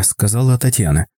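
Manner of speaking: ordinary delivery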